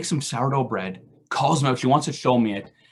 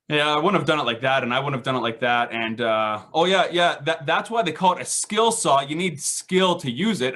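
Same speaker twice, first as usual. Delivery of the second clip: know-it-all brother. Retold or imitated. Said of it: "he all of a sudden starts saying".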